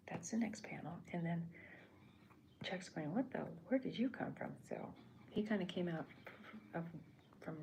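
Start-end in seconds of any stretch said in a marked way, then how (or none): 3.1-4.5 a lightly voiced startled Chuck; startled question. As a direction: pitch jumps up in mock surprise. Surprised goat owner in story.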